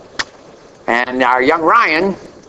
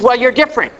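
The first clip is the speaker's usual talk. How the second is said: lightly voiced Trinidadian accent, higher; a hint of Trinidadian accent on the quote; retold Trinidadian accent; 5 semitones higher, faster than usual. Preacher quoting young man from Trinidad, lightly imitated accent. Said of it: "with his little accent, he says".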